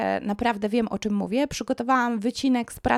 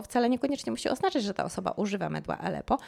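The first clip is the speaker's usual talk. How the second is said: ordinary talk, nothing marked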